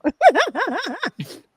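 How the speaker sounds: high, bubbling burst of laughter; real laugh. Real, not acted. Laughing at own disbelief.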